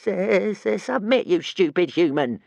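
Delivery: high, stuttering little dragon voice. A narrator's reading. Tiny dragon scolding his master, high stutter. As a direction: nag him to give up. Toothless keeps urging.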